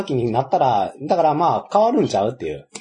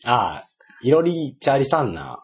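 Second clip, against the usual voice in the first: slowly sounding out 色りチャリさんな with Hiroshima intonation; carefully copying the Hiroshima phrase, slowly; slow Hiroshima dialect try; slower than usual. Shown as a demonstration. Co-host slowly copies the Hiroshima quiz phrase in Hiroshima dialect. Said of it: "あんまり色をチャリさんな。".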